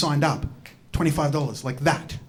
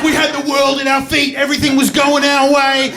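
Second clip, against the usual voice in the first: hammed-up triumph; 5 semitones higher than usual. Montage-style hype.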